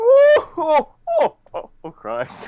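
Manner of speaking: very slow, very high, loud, drawn-out booming laugh. Saying goodbye in a festive voice: Santa Claus impression. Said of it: "My Santa Claus impression?".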